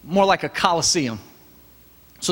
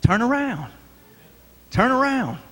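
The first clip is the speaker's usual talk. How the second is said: call and response; 6 semitones higher than usual. Real, not acted. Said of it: "what do you do?".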